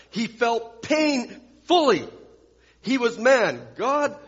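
high, forceful sermon delivery; impassioned preaching. Real, not acted. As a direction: drive home each short phrase from the pulpit.

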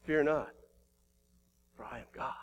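soft, low whisper of God's words; hushed voice of God. Retold or imitated. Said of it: "That's what he's saying here".

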